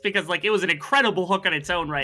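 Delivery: high, loud, laughing with hype; excited laughing. Real, not acted. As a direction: gush over the play, laughing. Co-caster hyped about hook.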